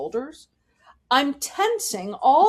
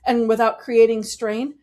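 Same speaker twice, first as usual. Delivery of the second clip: louder, open and unpushed; louder without strain; 3 semitones higher, 5 dB louder than usual. Shown as a demonstration. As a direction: grow louder with ease. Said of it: "I can go louder without pushing".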